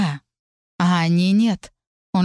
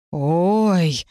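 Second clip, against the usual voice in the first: groan. A narrator's reading. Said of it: "простонал Арк".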